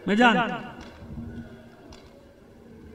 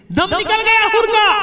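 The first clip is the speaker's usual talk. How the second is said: sudden high, loud wail; anguished outcry; 12 semitones higher, 9 dB louder than usual. Acted. Preacher announcing the hero's death to mourners, anguished outcry. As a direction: break out into a grief-stricken cry.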